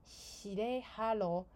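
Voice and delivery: very slow, drawn-out sarcastic hello; a slow, mocking are-you-kidding-me; sarcastic disbelief. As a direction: drag it out in disbelief. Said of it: "我就想说".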